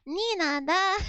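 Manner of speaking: "Nina, da" with a Japanese accent. Shown as a demonstration. Russian words slipping into a Japanese accent. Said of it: "My Japanese accent came out".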